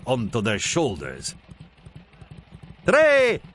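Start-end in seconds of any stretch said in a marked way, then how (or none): 2.8-3.4 high, louder countdown; child shouting the countdown; shouted countdown. A narrator's reading. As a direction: call out the countdown eagerly. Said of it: "shouted Zoe".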